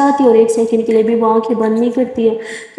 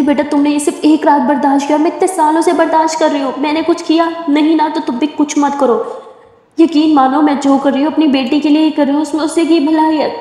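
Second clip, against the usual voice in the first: higher, firm mother's rebuttal; mother rebuffing Simran, firm; stern mother; 4 semitones higher than usual. Acted. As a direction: put the girl in her place. Mother arguing back with Simran.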